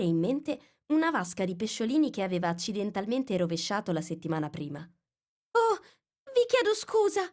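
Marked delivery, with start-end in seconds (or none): 4.8-7.2 high, loud, distressed cry; flustered Alice crying out in dismay; dismayed apology. Acted. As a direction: blurt sorry in a panic. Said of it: "esclamò smarrita".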